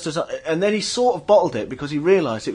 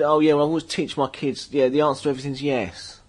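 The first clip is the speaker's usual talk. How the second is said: put-on transatlantic accent; a singer; 4 dB quieter than usual. A singer telling his own anecdote on stage, mock transatlantic accent. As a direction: lightly imitate a rambling transatlantic rocker. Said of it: "should I do the whole thing in that voice?".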